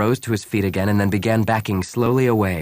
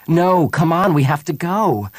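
higher, louder urgent insistence; urgent plea; 9 semitones higher, 5 dB louder than usual. A narrator's reading. Bria pulling Han back from the warehouse, urgent. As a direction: urge him away, voice raised.

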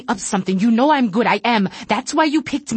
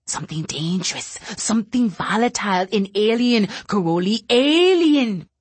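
agitated fear; 3 semitones higher than usual. Acted. Telepath pleading with Caroli, pitched up in fear. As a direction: plead it in rising panic.

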